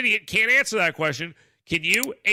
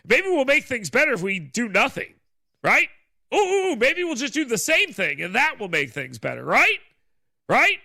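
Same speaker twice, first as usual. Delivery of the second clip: sarcastic; 5 semitones higher than usual. Acted. Sarcastic mock optimism.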